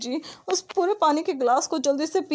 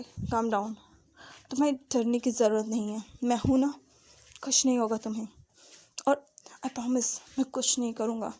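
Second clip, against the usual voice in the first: softer, gentle reassuring voice; tender soothing; 3 dB quieter than usual. Acted. Wing softly soothes panicking Wang ji. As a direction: hush a frightened boy with love. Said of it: "बड़े ही प्यार से कहता है".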